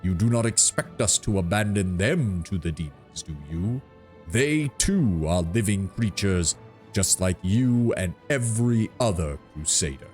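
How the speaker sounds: slow, mildly offended tree giant; a hint of wounded pride, slowly; treant voice. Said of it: "a faint note of anger".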